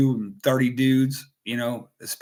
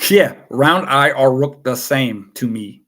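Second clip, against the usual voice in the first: slow, loud put-on Asian accent; hammed-up Asian accent, drawn out and loud; mock Asian accent; 9 dB louder than usual. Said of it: "he talk like this".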